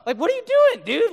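high, loud incredulous question; baffled. Acted. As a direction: ask it in comic disbelief. Baffled at the yelling man.

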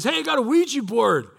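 an imitated friend's eager offer; excited party guest. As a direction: blurt it like a thrilled teen.

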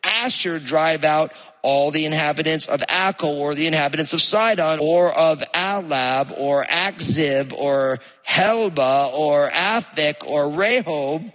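measured, solemn Bible reading; scripture reading. Acted. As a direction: read it aloud like scripture. Reads scripture passage aloud.

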